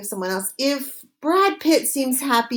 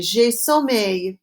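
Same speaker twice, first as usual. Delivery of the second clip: J'ai sommeil said slowly again for the class; slow repeat; slower than usual. Shown as a demonstration. Teacher repeating the phrase slowly after Répétez. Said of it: "Répétez".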